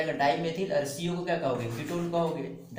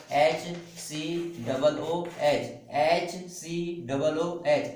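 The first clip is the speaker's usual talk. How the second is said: slow dictation; 2 semitones higher, much slower than usual. Shown as a demonstration. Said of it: "teacher dictating formula".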